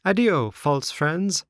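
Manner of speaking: high, loud, slow farewell; high-pitched, firm rebuff; scornful Pinocchio. A narrator's reading. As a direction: dismiss them in a high puppet voice.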